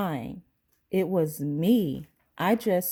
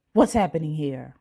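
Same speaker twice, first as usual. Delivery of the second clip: loud angry voice; faster than usual. Acted. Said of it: "a loud, angry voice said".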